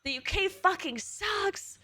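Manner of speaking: half-laughing jab at the UK; mock rant. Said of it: "So I'm like".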